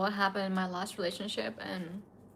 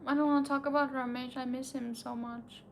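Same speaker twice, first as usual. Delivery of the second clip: crying. Real, not acted. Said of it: "Why you're crying?".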